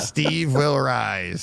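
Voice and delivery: slow, drawn-out mock-ominous title; mock movie tagline. Host joking about his friend haunting the cinema room, mock-ominous. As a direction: stretch it out like a horror title.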